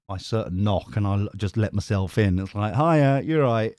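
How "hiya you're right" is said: higher-pitched, put-on casual greeting; pretending all's normal. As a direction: greet them as if nothing is wrong. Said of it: "pretended that it's just normal".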